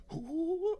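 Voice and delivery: high hoot that falls short; failed Tigger hoot. Pretend. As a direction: try the cartoon tiger hoot and miss. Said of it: "I can't do it".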